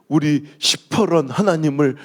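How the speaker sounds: a slow, botched 시퍼런 하나님을 in a mock elder's prayer; comic prayer blunder, said slowly; flubbed prayer phrase. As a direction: drag out the slip 시퍼런 as if praying earnestly. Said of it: "우리 하나님 스머프요 뭐요".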